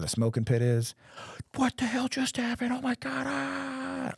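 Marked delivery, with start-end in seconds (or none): 1.5-4.1 high, stunned what-the-hell voice; stunned disbelief. Retold or imitated. Soldier reliving the verdict shock, high and stunned. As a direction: act out the jaw-drop after the verdict.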